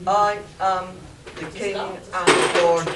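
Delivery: booming alien ruler; Martian overlord voice. Acted. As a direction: proclaim like an alien king. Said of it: "the Martian's voice spoke".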